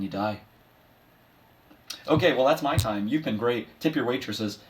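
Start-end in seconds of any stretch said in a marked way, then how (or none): 2.1-4.6 higher, lifted mock comedian's goodbye; lightly put-on showbiz patter; stand-up sign-off. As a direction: wrap up like a club comic.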